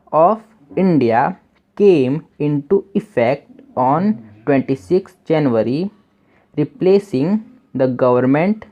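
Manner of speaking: each English word read slowly for learners; slow, careful classroom reading; slow reading aloud. Shown as a demonstration. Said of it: "reading English text slowly".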